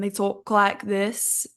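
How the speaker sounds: rough imitation of a Birmingham accent; badly faked Brummie accent; attempted Birmingham accent. Shown as a demonstration. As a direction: have a shaky go at a Birmingham accent. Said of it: "But the accents from Birmingham".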